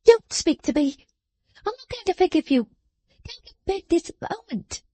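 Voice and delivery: high, sharp scolding voice; scolding little woman. A narrator's reading. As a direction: scold him like a child. Jenny scolding.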